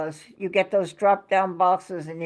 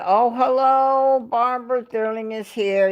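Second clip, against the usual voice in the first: delighted welcome to a legend; excited greeting; 3 semitones higher than usual. Retold or imitated. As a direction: imitate a cheery streamer greeting a fan. Retelling Eric's on-stream greeting.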